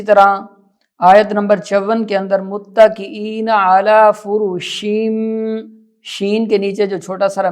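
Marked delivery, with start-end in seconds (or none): 2.4-5.2 measured tajweed with stretched vowels; Quran recitation. Shown as a demonstration. Teacher reciting a verse to learners, measured recitation. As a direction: recite and hum the final m.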